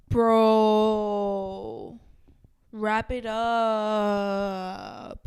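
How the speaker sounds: put-on loud, drawn-out, sing-song Armenian LA accent; mock an LA Armenian stretching the words out slowly; imitating Armenian accent. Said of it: "this is what they do".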